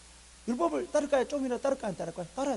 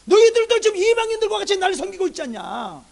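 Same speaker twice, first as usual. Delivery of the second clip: loud, high accusing question; God reproaching; 9 semitones higher, 15 dB louder than usual. Acted. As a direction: confront the people forcefully, drawing out the end. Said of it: "하나님 그걸 말하거든요". (백성을 다그치는 하나님의 큰 목소리)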